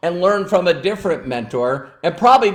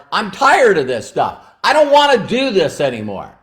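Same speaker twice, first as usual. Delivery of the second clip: Daniel; 3 semitones higher, 3 dB louder than usual. Retold or imitated. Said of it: "he's all upset at Mister Miyagi".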